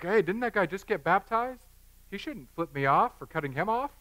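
playful put-on indignation; mock affronted. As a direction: imitate an offended onlooker in mild disbelief. Acts out affronted driver.

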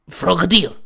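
put-on creature voice calling its name; Frogadier cheering. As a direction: cheer as a small Pokemon. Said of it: "the Pokemon called out in cheer".

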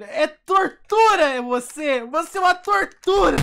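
high, loud, slow raging yell; furious shout. Real, not acted. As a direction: scream it like you'll break the keyboard. Raging at the game. (grito furioso, agudo e alto)

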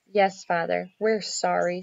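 meek apology. Acted. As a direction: own up in a small voice. Girl confesses to angry father.

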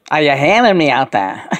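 rock-star-style Scouse call to the listeners; channeled Scouse voice. Pretend. Channeler as the rock star calls to everyone out there, in Scouse. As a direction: call out in Scouse, first take. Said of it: "say that again".

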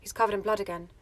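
deadpan every word the same; monotone Ginny. Shown as a demonstration. Ginny deadpanning about Harry's blood, low and monotone. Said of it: "lower ... very monotone".

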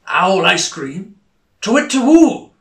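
slow then a loud high hoot; panicked owl hoot. Acted. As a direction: owl startled into hooting.

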